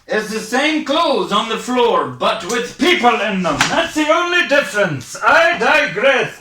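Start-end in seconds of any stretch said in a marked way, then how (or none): 5.2-6.4 theatrical aside. Acted. Comic self-interruption.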